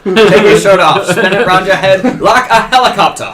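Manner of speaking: put-on Southern accent. Dad boasting Southern roots, mild Southern accent. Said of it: "The, the accent. He's very Southern".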